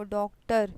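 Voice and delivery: डॉक्टर with a rounded "aw" in the first syllable; rounded o vowel. Shown as a demonstration. Teacher demonstrating the borrowed sound, rounded-vowel डॉक्टर. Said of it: "ओ पढ़ते हैं हम लोग उसको".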